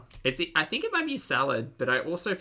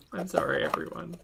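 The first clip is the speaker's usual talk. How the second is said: whispered; 4 semitones higher than usual. Real, not acted. Whispered apology to chat.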